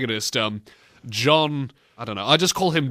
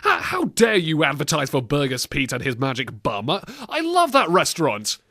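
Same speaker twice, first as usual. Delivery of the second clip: indignant complainer. Retold or imitated. Host imagining people writing in, mock indignation. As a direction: imitate an affronted letter writer defending a restaurant. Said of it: "people writing in saying".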